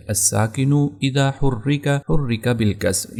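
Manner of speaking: slow, measured recitation of the Arabic maxim; reciting a rule. Shown as a demonstration. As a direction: chant the grammar rule slowly, word by word. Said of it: "یہ عربی کا grammar کا قاعدہ ہے".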